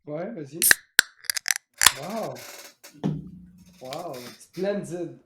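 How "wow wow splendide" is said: right in your ear. Pretend. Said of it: "vous seriez down pour un petit peu d'A S M R".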